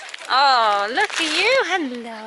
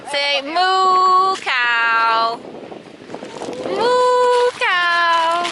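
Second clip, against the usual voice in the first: drawn-out moo; 2 semitones lower, much slower than usual. Acted. Cooing moo to calf.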